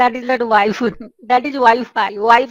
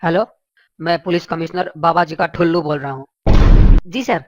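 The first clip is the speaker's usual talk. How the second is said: deep, lower police commissioner voice; gruff police officer; 5 semitones lower than usual. Acted. Commissioner phones Billa about a complaint, low and official. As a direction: sound like a stern cop on the phone.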